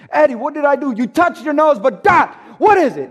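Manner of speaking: frustrated demand. Retold or imitated. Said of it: "Now I'm mad because I've asked you".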